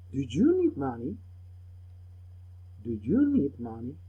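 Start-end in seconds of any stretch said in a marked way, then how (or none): 2.8-4.0 slowed model question for learners; unhurried, clear classroom repetition; slower repeat. Shown as a demonstration. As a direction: say it again, more slowly. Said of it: "Repeat the words slowly".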